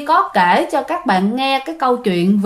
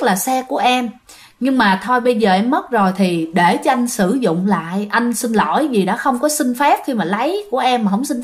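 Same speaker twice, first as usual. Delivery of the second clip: gently lowered voice, entreating the dead; imitated pleading prayer; 2 semitones lower than usual. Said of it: "khấn vái".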